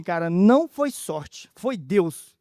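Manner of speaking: slow, weighty stress on "não"; firmly retold correction, "não" punched loud and drawn out; emphatic correction. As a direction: correct him slowly, leaning hard on "não". Retold rescuer firmly correcting him.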